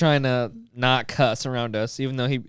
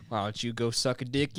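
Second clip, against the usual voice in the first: imitated dad's build-up; 2 semitones lower, 11 dB quieter than usual. Son imitating his mad dad, soft before the blow-up. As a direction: start softer, saving it for the last word. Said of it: "sentence structure would be the exact same".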